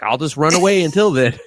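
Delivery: high-pitched mock getaway line; mock escape cry. Retold fleeing character's cheeky line.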